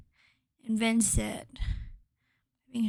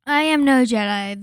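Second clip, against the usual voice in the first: announced title; 2 semitones higher, 9 dB louder than usual. Shown as a demonstration. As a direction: quote called out loud and strong. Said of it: "the Ahsoka versus Darth Vader scene".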